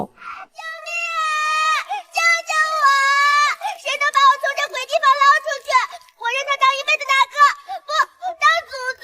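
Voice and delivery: panicked wail. Acted. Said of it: "发疯一样的嚎".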